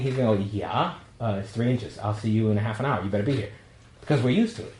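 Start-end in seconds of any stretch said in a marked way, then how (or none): 0.5-3.5 lower, offhand reply; unfazed New Yorker. Retold or imitated. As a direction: shrug off the snow, a bit softer and lower. New Yorker unfazed by snow, acted.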